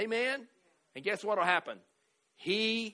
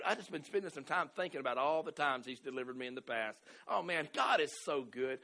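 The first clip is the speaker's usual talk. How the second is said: upbeat praising brother. Retold or imitated. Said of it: "Can you see a difference?".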